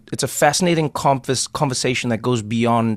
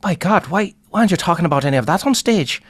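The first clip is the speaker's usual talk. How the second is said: higher, quick, mildly astonished; amazed comedian; 6 semitones higher, faster than usual. Retold or imitated. Irish comedian urging Trevor to tell his stories, amazed. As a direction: push him like you can't believe it. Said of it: "he goes".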